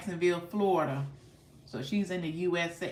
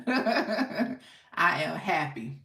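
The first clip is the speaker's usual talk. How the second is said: slow, laughing contentment; much slower than usual. Real, not acted. Host to stream about favorite meal, slow laughing. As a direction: laugh through it, very slowly.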